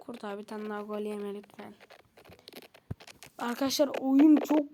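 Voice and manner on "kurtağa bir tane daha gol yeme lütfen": quiet begging; begging the keeper not to concede; soft pleading. Real, not acted. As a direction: plead under your breath. Pleading to goalkeeper.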